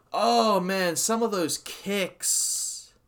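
loud, high, drawn-out awe; excited awe. Real, not acted. Fan reliving brutal kicks, loud high awe. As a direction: gush over how brutal those kicks were.

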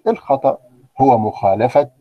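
normal talking voice

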